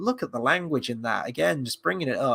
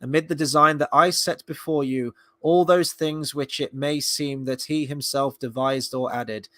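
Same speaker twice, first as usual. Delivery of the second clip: solemn literary reading. Acted. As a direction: read it out as stately scripture. Reads a Tolkien passage aloud.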